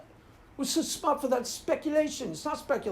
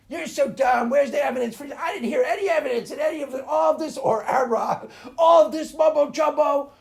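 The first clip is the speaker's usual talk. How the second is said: Aaron Ra imitation; 4 semitones higher, 5 dB louder than usual. Mocking Aaron Ra demanding evidence, loud shouting. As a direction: yell it like a ranting debate atheist. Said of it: "That's my Aaron Ra imitation".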